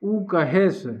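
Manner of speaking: Awadhi उ कहे से, a shift in voice; Awadhi form. Shown as a demonstration. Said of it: "इसमें क्या हो जाएगा".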